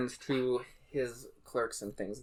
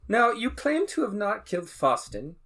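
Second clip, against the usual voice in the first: judge's questioning; 7 semitones higher, 4 dB louder than usual. Acted.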